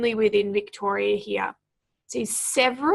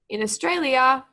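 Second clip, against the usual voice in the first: In Australia, then a clear pause; pause after In Australia; 2 semitones higher than usual. Shown as a demonstration. Teacher marking the pause for pupils. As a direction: say In Australia and stop before going on.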